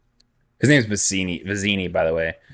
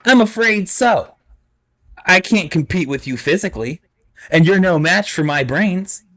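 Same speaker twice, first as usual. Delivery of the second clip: Vizzini voice; 7 semitones higher than usual. Acted. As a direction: talk down to him from way up high.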